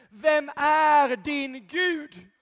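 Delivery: slow, loud challenge, leaning on "är"; shouted slow challenge. Acted. Preacher shouting the question at the congregation. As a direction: roar it slowly, "är" drawn out.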